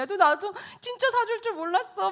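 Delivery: imitating a son's high-pitched protest; wailing protest. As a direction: plead innocence in a high boy's voice. Son continues protesting.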